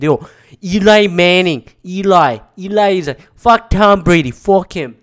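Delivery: hammed-up loudmouth fan imitation; New York sports fan. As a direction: belt it like a mock sports radio caller. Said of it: "New York sports fan that was like".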